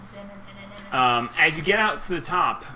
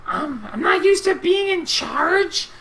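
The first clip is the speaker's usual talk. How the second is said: high, loud, swaggering goblin-lord voice; Little G; 7 dB louder than usual. Acted. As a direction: boast like a brutal new boss. GM holds Little G's voice.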